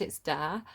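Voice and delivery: imitating the singer's "dare"; northern "dare". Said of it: "he'd pronounced the there as dare".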